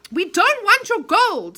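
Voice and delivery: high, slow protest; lightly pleading boy. Acted. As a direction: insist you mean no harm.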